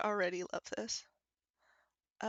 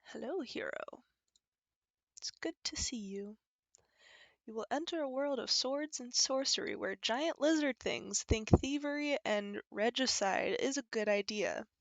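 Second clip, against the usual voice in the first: narration reading. Acted. Reads the game's opening text aloud.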